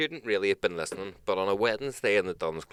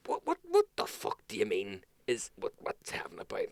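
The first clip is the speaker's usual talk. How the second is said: put-on confused drunk; 5 dB quieter than usual. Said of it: "your man was like".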